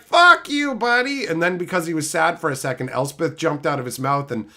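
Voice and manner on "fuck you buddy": mock angry curse. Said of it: "she's like".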